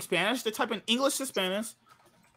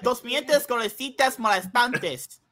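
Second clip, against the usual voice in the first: lightly voiced seductive fake Spanish; slow, sultry mock Spanish gibberish; sexy fake Spanish voice; 5 semitones higher, slower than usual. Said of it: "say it in the Spanish, the sexy voice".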